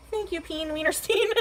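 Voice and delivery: slow, giggling thank-you; laughing. Real, not acted. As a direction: laugh through the name. Laughing at silly name.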